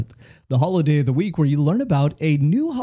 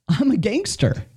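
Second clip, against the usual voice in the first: high, put-on kid voice; boy's voice; 10 semitones higher than usual. Telling a joke, voicing the boy in a high voice. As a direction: play the little boy bragging. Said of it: "And so the boy says".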